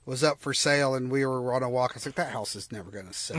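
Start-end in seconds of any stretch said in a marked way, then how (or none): 2.1-3.4 laughing. Retold or imitated. Joking quote during a walk.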